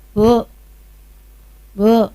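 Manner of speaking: calling out. Real, not acted. Calling out to audience member.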